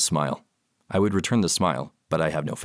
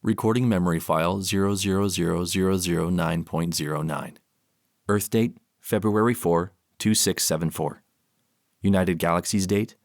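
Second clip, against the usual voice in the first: robot log voice. Acted. Robot logs memory file.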